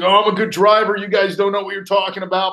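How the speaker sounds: hammed-up boastful buddy insisting he can drive; mocking Kark. Host teasing cohost about his driving, cocky mock voice. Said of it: "Kark's like".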